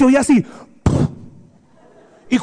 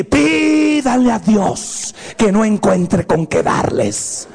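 slow, drawn-out mock threat; enraged mom; 3 semitones lower, much slower than usual. Mom threatens her sons, slow mock-angry warning. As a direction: imitate an angry mother, stretching out the warning. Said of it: "se enojaba de tal manera y decía una frase".

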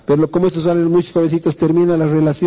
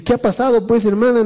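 gentle pastor asking; 7 semitones higher than usual. Retold or imitated. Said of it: "Y digo".

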